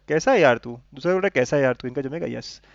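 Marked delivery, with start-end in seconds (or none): 0.1-0.8 mildly affectionate mock greeting. Shown as a demonstration. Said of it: "पहला भी प्यार से बोल रहा है". 1.3-1.9 lightly acted fond reply; affectionate. Shown as a demonstration. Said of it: "पहला भी प्यार से बोल रहा है".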